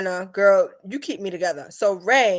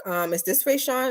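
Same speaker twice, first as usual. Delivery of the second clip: puzzled caller; 6 semitones higher than usual. Retold or imitated. Imitated confused caller.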